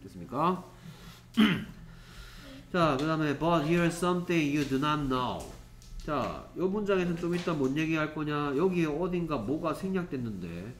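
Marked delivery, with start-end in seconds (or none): 3.4-5.4 very slow, word by word; slow read-aloud. Shown as a demonstration. Teacher reading the next sentence slowly to the class. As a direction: spell each word out slowly. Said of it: "teacher reads sentence aloud".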